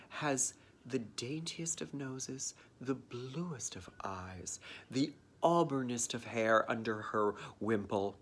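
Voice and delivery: soft, slow, hushed whisper; reverent mock whisper. Describing perfect Mary to the audience, in a mock-reverent whisper. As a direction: whisper it like an awed fan. Mocking Mary's perfect looks.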